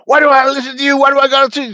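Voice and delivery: high squeaky whine; mock whiny refusal. Mocking Danny's refusal to listen, high squeaky whine. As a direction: whine like a stubborn kid.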